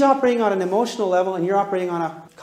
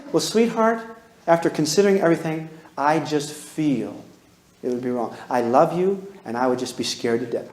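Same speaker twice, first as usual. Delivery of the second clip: tender parent refusal; 5 semitones lower than usual. Shown as a demonstration. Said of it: "And then you do this".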